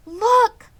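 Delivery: put-on high, loud eager girl's cry; excited cry. A narrator's reading. Fern calls her family to the web, thrilled. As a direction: call out to the grown-ups, thrilled. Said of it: "cried Fern".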